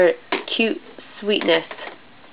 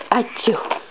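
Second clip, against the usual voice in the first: pretend sneeze; 2 semitones higher, 5 dB quieter than usual. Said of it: "She does a cute little pretend sneeze".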